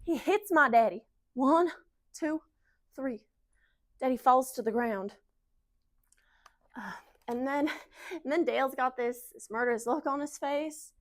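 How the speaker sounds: shaken Southern eyewitness, settling after the outburst; dramatic Southern storytelling; Southern wife Kara. Acted. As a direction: relive the fight in a Southern accent. Continues Kara's monologue.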